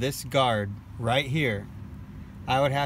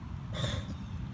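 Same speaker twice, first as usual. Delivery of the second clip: sharp breathy cough from a swallowed bug; cough after swallowing a bug; 9 dB quieter than usual. Real, not acted. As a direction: clear the throat after a bug. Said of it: "just swallowed a bug".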